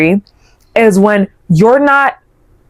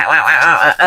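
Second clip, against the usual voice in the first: mocking wah wah; 6 semitones lower than usual. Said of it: "I promise you I'm hearing wah".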